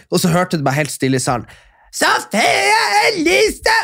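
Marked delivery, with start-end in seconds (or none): 1.9-3.7 high, slow, drawn-out shout of a name; hammed-up drunk cry, pitched way up; mock drunken yell. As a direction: bellow it across the hall like a drunk fan. Drunk woman yelling wrong winner.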